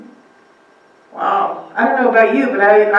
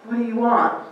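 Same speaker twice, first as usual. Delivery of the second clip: a hammed-up demonic challenge; demons confronting Jesus; 3 semitones higher than usual. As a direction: confront him as the frightened demons. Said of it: "they ran up to him and said".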